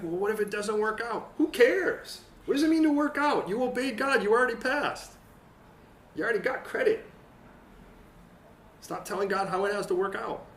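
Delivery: loud and high, urgent sermon voice; fiery preaching. Acted. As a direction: drive it home to the congregation. Preaching at full force.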